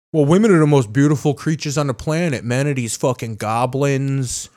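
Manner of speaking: hint of a guy overselling his disgust for men; mocking defensive straight guy. A hint of a defensive straight guy mocking men. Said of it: "the defense of misogyny".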